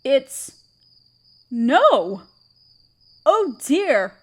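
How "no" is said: dismayed no. Acted. Hearing the village's fate.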